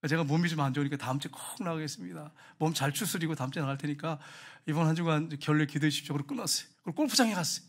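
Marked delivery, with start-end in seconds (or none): 0.1-6.1 softer, lower phone excuse; feigning unwell. Acted. Elder phoning church to skip Sunday, mildly feigned unwellness. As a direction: mildly play sick to get out of it. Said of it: "그래서 교회를 전환하셨대요".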